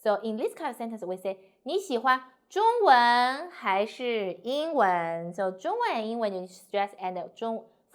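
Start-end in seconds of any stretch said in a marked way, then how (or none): 1.6-6.3 first option rises, 中文 up and 英文 down; rising then falling choice. Shown as a demonstration. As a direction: lift the first choice, drop the second. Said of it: "first one go up and the second one go down".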